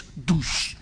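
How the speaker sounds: low, soft mock headbutt thud; imitated impact noise. Preacher imitating a feared Glaswegian kiss, low muted impact noise.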